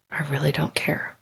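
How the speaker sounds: retold calm, dropped to a near-whisper; calm hushed near-whisper. Telling the upset nurse she doesn't care, hushed and calm. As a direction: play it down, barely voiced and unbothered. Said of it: "I was super calm".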